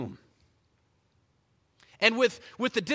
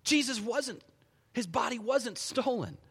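usual speaking voice

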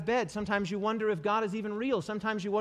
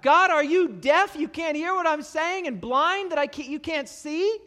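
crying out; 9 semitones higher, 7 dB louder than usual. Retold or imitated. Psalmist challenges a deaf God, crying out. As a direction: protest up to heaven, voice raised. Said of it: "the psalmist cries out".

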